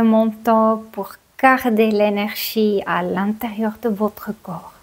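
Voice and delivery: measured meditation guidance with long pauses; guided yoga nidra. Real, not acted. Teacher settling listeners down for yoga nidra, guided meditation voice. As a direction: guide them unhurriedly into stillness, pausing between phrases.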